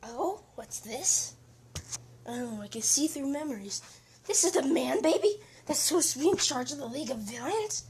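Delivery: high, loud gleeful demon. Acted. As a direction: burst out like a demon breaking free. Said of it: "and he's like".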